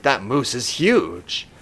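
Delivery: slow, deliberate mock wonder; hammed-up tracker's awe, slow. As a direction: play at being amazed, drawing it out. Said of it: "supposed to be looking at it and being like".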